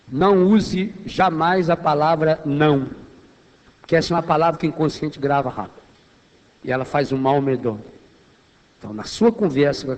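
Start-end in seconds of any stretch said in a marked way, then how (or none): none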